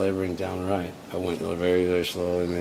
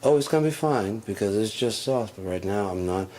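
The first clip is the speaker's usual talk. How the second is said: loud exasperated; 4 semitones higher, 5 dB louder than usual. Retold or imitated. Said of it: "her reply and his".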